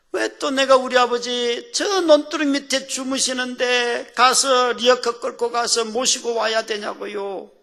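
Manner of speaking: high-pitched, plaintive retold lament; acted crying complaint. Son who must cart his father home, crying complaint. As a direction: lament it as a worn-out son would. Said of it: "그 본문 읽다가 우는 거예요".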